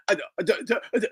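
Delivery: mock a stutter by restarting "uh" over and over; mock Philly stutter. Streamer mocking Philly fighters' speech, mock stutter on "uh". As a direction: stammer on "uh, uh", imitating fighters. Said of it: "they have a stutter on purpose".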